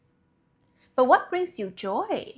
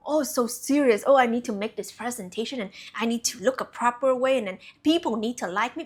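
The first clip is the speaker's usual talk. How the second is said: fast, fussy mock-anxious voice; mocking serious worrier; faster than usual. Mocking people who take life too seriously, fast and fussy. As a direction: rattle it off like a stressed people-pleaser.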